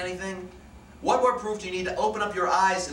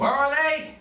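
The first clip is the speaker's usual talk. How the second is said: higher, pushed yell; screams; 6 semitones higher, 3 dB louder, slower than usual. Acted. Captain towering over the family, yelling the question.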